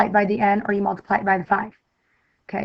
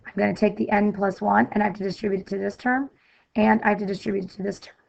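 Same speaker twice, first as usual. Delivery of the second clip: hoarse, fading voice, a bit quiet; losing voice; 5 dB quieter, faster than usual. Real, not acted. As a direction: voice giving out mid-lesson. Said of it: "I'm losing my voice".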